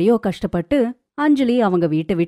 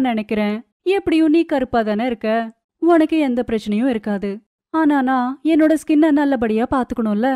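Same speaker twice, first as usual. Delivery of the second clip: lightly voiced vain daughter-in-law, pitched up; self-important co-sister; 5 semitones higher than usual. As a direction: order the co-sister about, a touch haughty. (லேசான கர்வத்துடன் உயர்ந்த குரல்)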